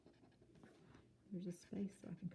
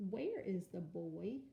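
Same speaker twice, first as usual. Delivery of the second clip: slow model reading; slower than usual. Shown as a demonstration. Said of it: "slow model reading".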